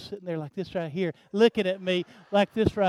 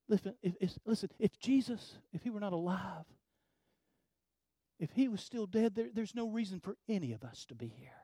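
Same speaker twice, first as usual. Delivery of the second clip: sudden drop to very soft; soft, grave appeal to the congregation; hushed earnest preaching; 10 dB quieter than usual. Real, not acted. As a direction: lean in quietly and make them listen. Preacher drops to earnest hush.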